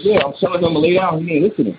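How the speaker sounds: a hint of a worried wife; imitating alarmed wife. Wife reports alarming news to husband.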